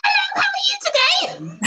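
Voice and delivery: high, loud squawked greeting, laughing; comically overdone shrill hello; mock too-loud greeting. Shown as a demonstration. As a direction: blurt it out absurdly high and loud. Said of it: "you whisper in their ear".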